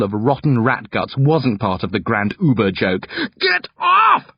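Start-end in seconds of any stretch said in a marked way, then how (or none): 3.4-4.3 high, forceful panicked roar. A narrator's reading. Brother lashing out at attacking sister, roaring. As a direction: roar it to throw someone off. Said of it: "I roar".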